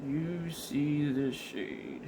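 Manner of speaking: slow and deliberate, drawing it out; slow, emphatic. Shown as a demonstration. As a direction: spell it out slowly.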